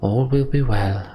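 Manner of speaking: slow, drawn-out reassurance; reassuring. A narrator's reading. Juno starting to calm everyone, reassuring. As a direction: soothe them slowly.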